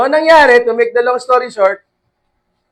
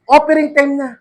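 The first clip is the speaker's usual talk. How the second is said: announcing offering time; 6 semitones higher than usual. Acted. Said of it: "Ito na, offering time na".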